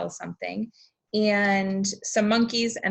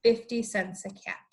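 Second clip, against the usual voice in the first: peddler calling again as he heads home; 5 semitones higher, slower than usual. Acted. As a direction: peddler calling his wares walking back to town. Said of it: "walked back into town calling".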